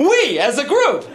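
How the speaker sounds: high-pitched angry yell; furious mama bear. Retold or imitated. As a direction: bellow an order at the whole drunk group. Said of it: "She's pissed".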